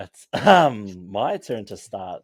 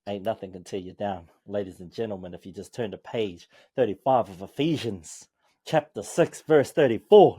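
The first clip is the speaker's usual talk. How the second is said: preacher cadence, building from low to raised; mock preacher; 3 semitones lower than usual. Mate playfully sermonising on his inspirational quote, mock preacher voice. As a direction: preach it, rising toward the verse number. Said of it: "that was my preacher voice".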